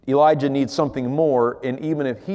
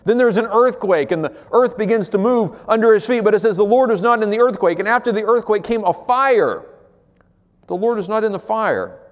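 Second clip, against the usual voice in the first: building dramatic retelling; 6 semitones higher, 3 dB louder than usual. Acted. Dramatic retelling of wind, earthquake, fire.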